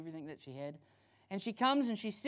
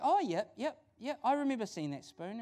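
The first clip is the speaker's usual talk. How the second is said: higher, easy agreement; lightly voiced pastor; 4 semitones higher than usual. Pastor answers his hosts about the spoon, breezily agreeing. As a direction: agree readily in a raised pitch. Pastor cheerfully admits, retold.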